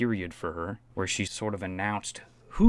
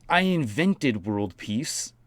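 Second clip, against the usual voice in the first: mocking quote; 2 semitones higher, much slower than usual. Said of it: "That's like you being like".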